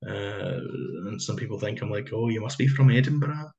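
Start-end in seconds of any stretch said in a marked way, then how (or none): 2.1-3.5 Edinburgh accent attempt. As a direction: try a genteel Edinburgh accent but let it drift Glaswegian. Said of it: "I was trying to do an Edinburgh accent".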